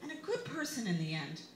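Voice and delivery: lightly high, kindly lecturing friend; hint of a wise friend reassuring; a touch of sweet advice voice; imitating Peggy. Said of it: "She is unfailingly wise and kind".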